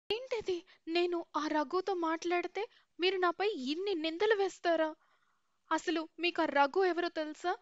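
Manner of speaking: hurt and furious, answering back; angry retort. Acted. Daughter-in-law snaps back at accusers. (అత్తగారికి కోపంగా ఎదురు సమాధానం)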